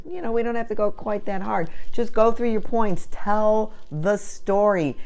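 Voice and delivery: coaching client. Retold or imitated. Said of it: "I said".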